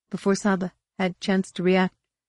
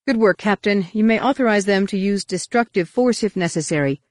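higher, louder official order; formal command; 4 semitones higher, 4 dB louder than usual. A narrator's reading. Luke ignoring Darek to instruct Yage, formal command. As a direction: authorize it firmly over the comlink. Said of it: "the more formal tone in Luke's voice".

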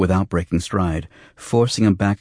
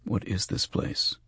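whispering; 2 semitones higher, 7 dB quieter than usual. Acted. Angie whispers in cab.

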